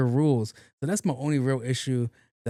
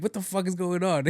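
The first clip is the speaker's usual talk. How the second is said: laughing reaction; 6 semitones higher than usual. Real, not acted. Streamer reacting to kids lost in translation, laughing. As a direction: say it through rising giggles.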